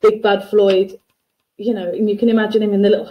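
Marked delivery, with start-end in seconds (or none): 0.0-1.0 a hint of a bad movie gangster on Big Bad Floyd; Big Bad Floyd in a faint gangster voice; cheesy mafia gangster. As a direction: lightly voice a cheesy mafia villain. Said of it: "sounds like a bad mafia gangster".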